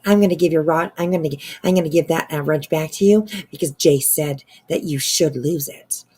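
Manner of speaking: loud, pushy mock of BJ's threat. Streamer imitates BJ threatening over the wrench, loud mock. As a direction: ham up a bossy streamer's threat. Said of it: "B J, like".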